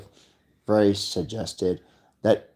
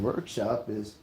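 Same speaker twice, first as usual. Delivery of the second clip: unvoiced whisper of a secret; mock conspiratorial whisper; 10 dB quieter than usual. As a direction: lean in and whisper the gossip. Whispered aside.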